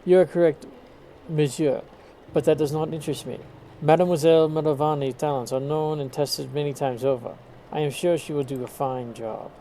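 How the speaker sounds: put-on retry the detective's line in a light French accent. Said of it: "I'm having a hard time speaking in a French accent".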